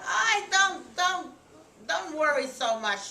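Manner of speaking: high, emphatic hushing of worries; fussing reassurance. A narrator's reading. Woman tells tearful Rachel not to worry, high emphatic reassurance.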